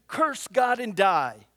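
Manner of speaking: mild mock harsh rebuke; stern wife. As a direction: deliver it like a bitter wife. Job's wife voiced.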